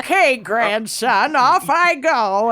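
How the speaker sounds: put-on old lady voice. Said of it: "You love your old lady voice today".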